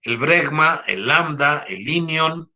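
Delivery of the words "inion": inion stressed on the first syllable, Í-nion; correct Latin stress. Shown as a demonstration. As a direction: put the accent on the opening i of inion. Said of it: "no es inion".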